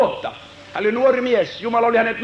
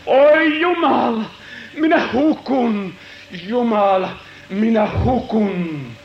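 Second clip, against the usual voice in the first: pleading, slow despairing cry; anguished lament; 2 semitones lower, slower than usual. Acted. Prophet lamenting before God, despairing cry. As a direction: lament as if drowning.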